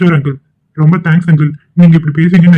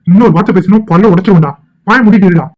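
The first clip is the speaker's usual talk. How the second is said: angry threat; 3 semitones higher than usual. Acted. Threatens rival in a quarrel.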